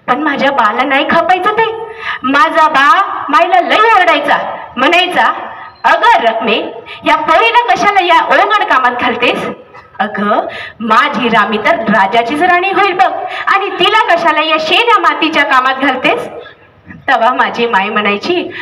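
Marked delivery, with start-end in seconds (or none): 5.8-16.3 the father chiding his wife gently; father's voice. Acted. Father voiced scolding mother.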